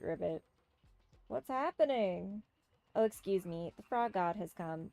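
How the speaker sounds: lightly voiced theatrical fortune teller; a hint of a mystic frog witch, grandly pleased; frog sorceress. Frog sorceress telling a couple's love fortune, lightly theatrical.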